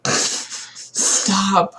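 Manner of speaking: normal talking voice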